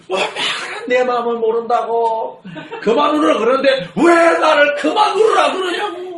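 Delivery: mock angry outburst. Voicing daughter's angry outburst.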